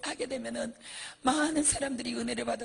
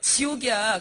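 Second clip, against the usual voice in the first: scolding demon; 7 dB louder than usual. Retold or imitated. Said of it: "귀신이 그래요".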